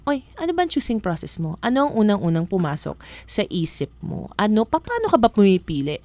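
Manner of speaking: mock a casual friend quizzing you; light playful question from a friend; asking friend. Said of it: "Kapag ka tinanong sa inyo".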